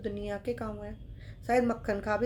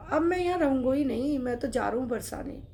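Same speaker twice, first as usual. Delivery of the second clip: angry outburst; 3 semitones higher, 3 dB louder than usual. Acted. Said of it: "गुस्सा में थैला उठाया".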